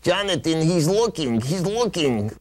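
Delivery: urgent, telling on him; excited tattling. Acted. Dummy insists he's peeking.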